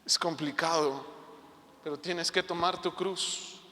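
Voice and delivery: con mucho amor. Retold or imitated. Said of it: "me hablaba con mucho amor".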